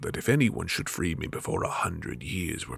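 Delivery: jinn recounting captivity. Acted.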